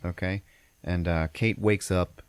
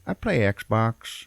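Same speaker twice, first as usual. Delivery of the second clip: very slow, put-on loafer voice, raised; slacker husband; 4 semitones higher, much slower than usual. Dad answers what he does, slow mock-loafer voice. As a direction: drag it out like a proud slacker.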